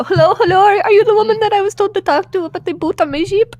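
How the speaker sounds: frantic. Acted. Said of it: "I run over to her looking very frantic".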